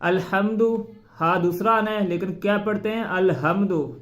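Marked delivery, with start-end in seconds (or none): 3.1-3.9 अलहम्दु with the wrong heavy ह; wrong pronunciation. Shown as a demonstration. Teacher demonstrating wrong h sound. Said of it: "ये नहीं पढ़ना".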